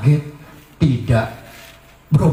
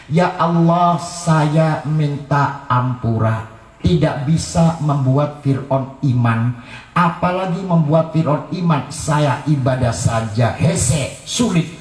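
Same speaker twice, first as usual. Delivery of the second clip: Asia praying. Retold or imitated. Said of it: "Asia lagi doa begini".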